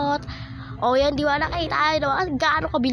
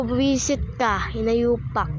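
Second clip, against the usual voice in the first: mock insult; slower than usual. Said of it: "Sabi ko".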